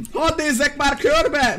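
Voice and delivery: magasabban, lassan nyújtva; könyörögj türelmetlenül; nyafogó kérés. Acted. Türelmetlenül kérleli a falusit. (nyafogós, lassú kérés)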